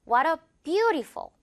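slow "What a beautiful", weight on BEAU; stress on BEAU. Shown as a demonstration. Teacher modelling the phrase for learners, BEAU stressed in "beautiful". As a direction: lean on the first syllable of "beautiful". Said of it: "뷰 부분의 강세".

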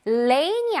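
"Rain이" mispronounced as "lainy". Shown as a demonstration. Teacher showing the wrong way to say rainy, L sound. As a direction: start "Rain이" with a clear L instead of R. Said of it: "Rain이 아니고 R이니까 rainy".

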